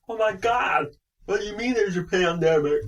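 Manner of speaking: high, loud shocked singer-like voice; mimicking the actress panicking about a pandemic; imitating Madeleine Stowe. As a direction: shriek it like a shocked Hollywood star. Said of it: "She's like that".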